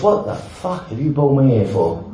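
sarcastically sweet, slowed down; mock caring voice. To his mate at the prison AA meeting, mock caring. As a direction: ironic tenderness masking outrage. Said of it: "in my most caring voice".

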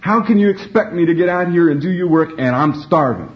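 high-pitched mock yell at God, little added volume; half-strength imitated scream of complaint; retold scream. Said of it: "screamed in the top of my voice".

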